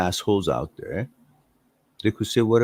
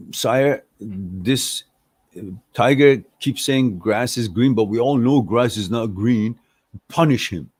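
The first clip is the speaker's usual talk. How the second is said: pleading donkey; 3 semitones higher, 3 dB louder than usual. Acted. Donkey pleads case to lion.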